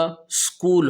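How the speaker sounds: اسکول said as skool, no vowel before the s; اسکول pronounced skool, English way; English-style skool. Shown as a demonstration. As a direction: start اسکول straight on the s sound. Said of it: "یہ لفظ کیا ہوگا؟".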